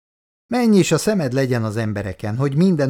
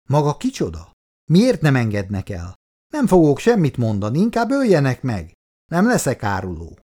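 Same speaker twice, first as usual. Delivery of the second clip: higher-pitched, defiant outburst; shouting; 4 semitones higher than usual. Acted. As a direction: raise the voice like a captive refusing to talk. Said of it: "kiabálta". (emelt hangon, kiabálva)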